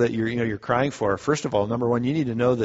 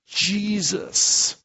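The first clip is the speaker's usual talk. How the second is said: simple heartfelt cry; 6 semitones higher than usual. Retold or imitated. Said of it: "simple cry of the heart".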